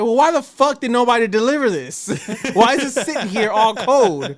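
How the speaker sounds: loud, heated rant at the counter; angry retold complaint. Customer yelling at pizza staff about cold delivery, angrily. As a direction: really let them have it.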